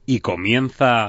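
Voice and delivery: slow, booming announcer intro; radio voice. Shown as a demonstration. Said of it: "lo voy a hacer con voz de radio".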